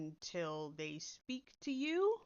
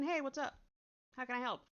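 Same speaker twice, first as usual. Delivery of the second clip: casual greeting; 4 semitones higher than usual. Shown as a demonstration. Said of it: "a more conversational attitude".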